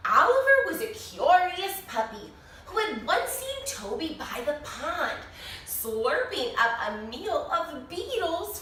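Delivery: lively storybook narration with bright rises; animated read-aloud for a class; reading to children. A narrator's reading. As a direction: read it like story time for little kids. Reads picture book to children.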